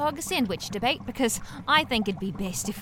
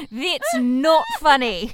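annoyed; 4 semitones higher, 9 dB louder, much slower than usual. Acted. Scolding the prankster after laughing.

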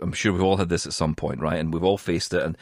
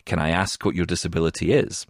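softer and lower, a kindly call-centre voice; a gentle, polite agent; 5 semitones lower, 4 dB quieter than usual. Retold or imitated. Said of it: "very kindly".

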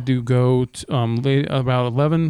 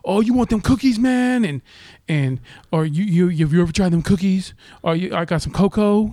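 drug dealer; 5 semitones higher than usual. Retold or imitated. Passenger pushing drugs on the driver, higher hustler voice. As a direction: sell it like a street hustler, up high. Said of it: "He's like".

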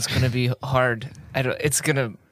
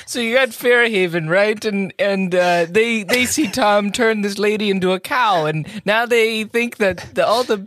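put-on Irish accent; 4 semitones higher than usual. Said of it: "I'm gonna try to do it in an Irish accent".

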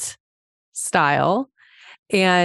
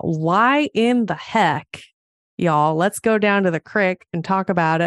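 put-on Montana accent. Host joking with listeners about her roots, playful Montana accent. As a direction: lean into a folksy Montana accent. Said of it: "I could do a whole Montana accent".

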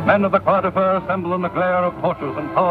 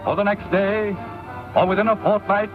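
vintage 1930s newsreel narration. Real, not acted. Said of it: "This is a newsreel from the early nineteen thirties".

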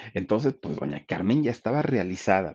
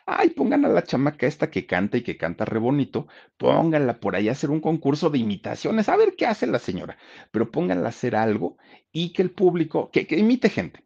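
higher, animated boss voice; dueño mandón actuado; 6 semitones higher than usual. Retold or imitated. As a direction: play the owner tossing out orders, pitched up. Station owner giving orders, acted. (jefe dando órdenes, tono agudo)

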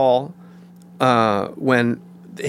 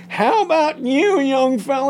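high, slow goofy Farley voice; hammed-up big guy teasing; 13 semitones higher than usual. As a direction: ham it up as Chris Farley mugging at a castmate. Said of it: "so he goes".

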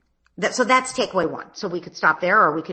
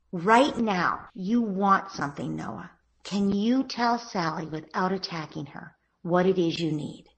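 gentle parent; slower than usual. Shown as a demonstration. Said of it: "So you say".

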